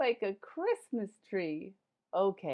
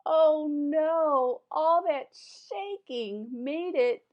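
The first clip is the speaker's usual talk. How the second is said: loud, high mock alarm; loud comic oh-no to the kids; hammed-up dismay; 5 semitones higher, 8 dB louder, much slower than usual. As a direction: wail it in playful panic. Character dismayed by snow.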